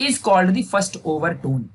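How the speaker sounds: very slow, word by word reading; slow dictation. Shown as a demonstration. Teacher slowly reads the textbook definition to students. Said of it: "क्या लिखा है, ध्यान देना अच्छे से".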